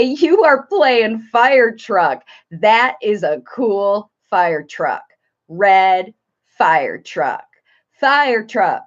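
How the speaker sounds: put-on slow sing-song kids' video voice; sing-songy. Shown as a demonstration. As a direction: state it simply in short, drawn-out phrases for a toddler. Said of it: "short little phrases with sing-songy stuff in your voice".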